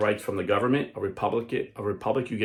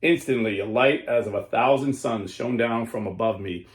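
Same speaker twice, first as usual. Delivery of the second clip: solemn, measured story narration; grave storyteller voice; dramatic reading. Acted. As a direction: read it like an awed vision. Reads a vision aloud.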